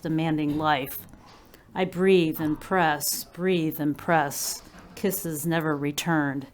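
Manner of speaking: measured recital, falling at phrase ends; poetry reading. Acted. Poet reads her First Kiss poem to listeners, measured recital. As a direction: pace out each image deliberately.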